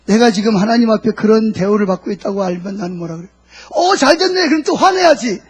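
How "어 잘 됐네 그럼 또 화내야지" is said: high, loud, gleeful mock reaction; mock delight. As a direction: act brazenly pleased with yourself. Acts out a brazen wrong reaction. (뻔뻔하게 신난 척하는 높은 목소리)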